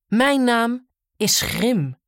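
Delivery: slow, booming giant voice. Acted. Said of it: "zei de reus".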